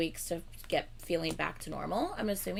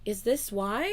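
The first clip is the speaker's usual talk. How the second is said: mock realization; 2 semitones higher, slower than usual. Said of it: "I went".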